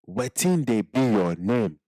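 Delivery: slow Nigerian Pidgin "Wetin dey be your name?"; slow Pidgin accent. Shown as a demonstration. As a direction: drag it out in the Pidgin accent for learners. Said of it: "have the accent right".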